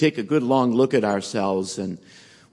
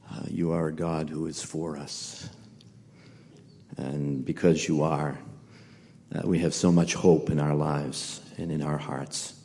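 subdued, softer praying voice; prayer; 6 semitones lower, 6 dB quieter than usual. Real, not acted. Preacher thanking the Father before the teaching, subdued prayer. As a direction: pray reverently, pausing between phrases.

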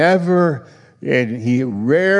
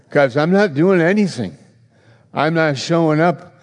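higher and louder, the stern voice of God; commanding God, raised and firm; 5 semitones higher, 4 dB louder than usual. Acted. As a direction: lay down the terms as God would. Voicing God's firm answer.

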